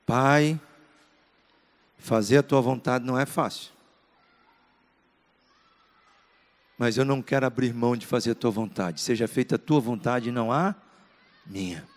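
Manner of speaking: low, soft, surrendering prayer; pained prayer. Acted. Jesus praying to the Father in agony, pained and subdued. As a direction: pray it low and hushed, yielding at the last word. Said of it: "um momento tão intenso, de tanta dor".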